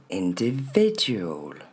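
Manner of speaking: INDIVIDUAL as "in-dé-VÉ-dju-ol", very slowly; short E-like vowels, falling "ol"; model pronunciation. Shown as a demonstration. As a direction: stretch "individual", stress on VI. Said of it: "c'est bien le son E".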